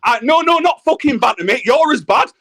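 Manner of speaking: angry retort. Real, not acted. Streamer snapping back at Richard's banter, angry. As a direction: snap back hard, fed up. Heated livestream row with Richard.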